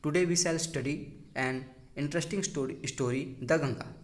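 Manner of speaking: slow, clear announcement to pupils; classroom opening line. Shown as a demonstration. Teacher showing trainees what to tell the class, slowly. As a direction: say it the way you would open the lesson. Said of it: "आपको बोलना है class में बच्चों के सामने".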